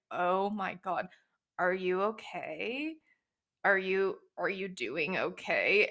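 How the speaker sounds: slow, understated deadpan check-in; unimpressed, going through the motions of asking; gruff reluctant concern. Retold or imitated. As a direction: imitate someone barely holding back an eye-roll. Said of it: "gruffly asking if she's okay while trying not to roll".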